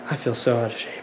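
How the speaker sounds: panting after the workout; winded, catching breath. Real, not acted. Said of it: "I'm out of breath right now".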